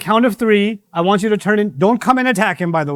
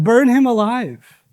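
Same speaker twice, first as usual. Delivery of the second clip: slow, higher drawn-out call to burn; slow menacing cry; 6 semitones higher, much slower than usual. Retold or imitated. The crowd demanding Ibrahim be burned, slow and grim. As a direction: drag out the crowd's cruel demand. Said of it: "They said".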